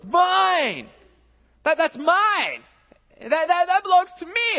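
put-on high, loud screech of a three-year-old; toddler shouting mine. Pastor imitating his toddler son yelling over a toy. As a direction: shriek it like a toddler grabbing a toy. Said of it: "Trace goes".

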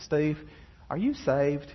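lightly put-on sweet Southern accent. Secretary asking Steve about faith, mock sweet Southern accent. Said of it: "she said in her very sweet Southern accent".

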